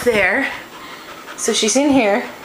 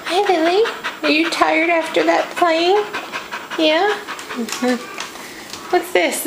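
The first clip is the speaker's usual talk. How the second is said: higher sing-song pet voice; talking to a dog; 5 semitones higher, slower than usual. Real, not acted. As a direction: coo at the dog. Baby talk to dog.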